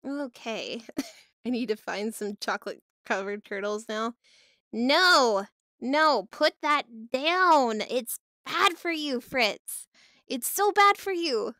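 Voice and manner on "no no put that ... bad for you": slow, drawn-out emphatic no-no; pleading scold. Pretend. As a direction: beg them to stop, raised voice. Scolding Fritz to put it down.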